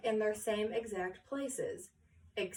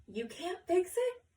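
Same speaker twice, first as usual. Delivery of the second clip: gasped; 8 semitones higher than usual. Acted. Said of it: "gasped Miss Shepherd".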